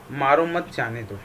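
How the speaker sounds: "मारो मत" ऊँचा और ज़ोर से, फिर "जाने दो" नीचे उतरता; "मारो मत" पर बल, "जाने दो" पर आवाज़ गिराएँ; विराम का उदाहरण. Shown as a demonstration. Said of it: "ठहराव को विराम कहते हैं". ("मारो मत" उभरा हुआ, "जाने दो" धीमे स्वर में)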